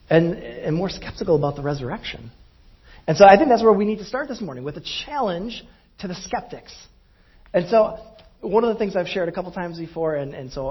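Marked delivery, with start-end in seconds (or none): 3.1-6.7 louder, faster push into the point; preacher ramping up loud and quick; rising preacher force. Real, not acted. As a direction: drive it home to the congregation. Preacher raises voice.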